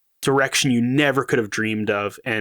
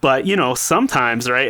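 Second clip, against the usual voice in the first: higher-pitched, lightly mocking sarcasm; sarcastic; 4 semitones higher than usual. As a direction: play up the sarcasm, pitched up as if humouring a doubter. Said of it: "like, sarcastic tone where I'm like".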